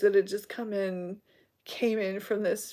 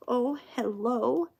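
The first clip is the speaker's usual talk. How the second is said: whispered hello; 3 semitones higher, slower than usual. Real, not acted. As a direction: breathe a secret hello. Whispered greeting to audience.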